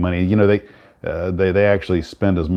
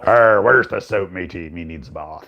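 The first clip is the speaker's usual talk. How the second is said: pirate voice. Acted. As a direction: play a soap-hunting pirate. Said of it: "Talk Like a Pirate Day".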